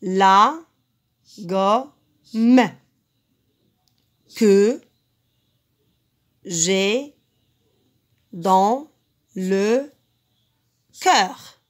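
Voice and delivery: loud, detached syllables for counting. Shown as a demonstration. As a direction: tap out every syllable of "La gomme que j'ai dans le cœur". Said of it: "Je passe au deuxième vers".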